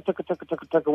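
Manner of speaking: quick tucka tucka mouth call; tucka call demo. Shown as a demonstration. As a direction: rattle off tucka like a duck call. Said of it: "you can also go tucka".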